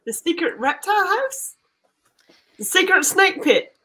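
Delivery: Aussie detective probing; put-on Australian accent, questioning. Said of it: "time in that Australian accent".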